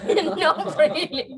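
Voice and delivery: high, slow laughing denial. Real, not acted. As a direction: chuckle through a drawn-out reassurance. Laughingly reassures nervous guest.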